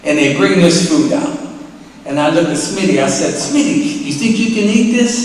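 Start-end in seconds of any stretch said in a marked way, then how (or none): 3.3-5.2 high-pitched, incredulous question; retold worried question, pitched way up; doubtful asking. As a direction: check with a friend in disbelief.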